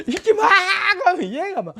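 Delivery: giggly, breathless hurry; laughing demo. Shown as a demonstration. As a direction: laugh while rushing the words.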